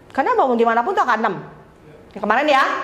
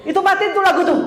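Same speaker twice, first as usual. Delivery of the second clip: higher, mock-annoyed "matiin"; laughing while snapping turn it off; irritated mock order; 5 semitones higher, faster than usual. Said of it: "Sewot banget gitu". (perintah kesal setengah bercanda sambil tertawa)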